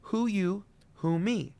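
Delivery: "Who" slid up high into falsetto; siren. Shown as a demonstration. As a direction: sweep up like a siren. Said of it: "Let's try it again".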